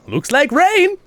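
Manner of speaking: very high, loud comic exclamation; Da Vinci. Shown as a demonstration. Re-voicing Da Vinci for sister's project, comically exclaiming. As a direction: call it out in a high cartoon voice. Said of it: "I did the voice for Da Vinci".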